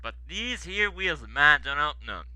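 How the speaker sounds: put-on soft, plaintive American-accented excuse; mournful. Stanley apologising to the controller, mournful and soft. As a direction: plead quietly that it isn't your fault. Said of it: "mourned Stanley".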